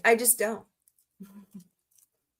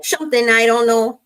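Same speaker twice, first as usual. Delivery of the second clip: loud echo; 8 dB louder than usual. Pretend. Echoing a clip aloud.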